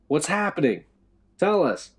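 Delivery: loud, high demanding shout. A narrator's reading. Will demanding answers from below, loud. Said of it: "Will demanded".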